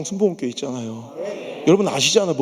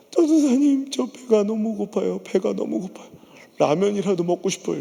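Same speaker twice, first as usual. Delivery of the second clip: wife's hungry plea. Retold or imitated. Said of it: "집사람이 절규했던 그 목소리".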